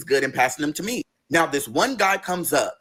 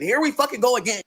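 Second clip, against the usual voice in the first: higher-pitched, exasperated “Here we fucking go again”; high exasperation; 4 semitones higher than usual. Acted. Girlfriend facing another quarrel, high exasperation. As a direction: lift it high in protest.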